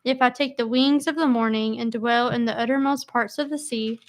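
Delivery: steady, formal Bible reading; measured psalm reading aloud; scripture reading. Acted. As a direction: read the verses like a reader at a study. Reads psalm aloud to group.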